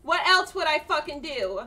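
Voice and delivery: exasperated shouting at a squadmate; aggressive yelling. Real, not acted. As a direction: yell defensively in the heat of a fight. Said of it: "I get so aggressive when I'm fighting".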